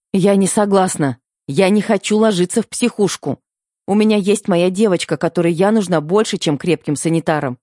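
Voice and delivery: panicked pleading. Acted. Panicked denial of hallucination.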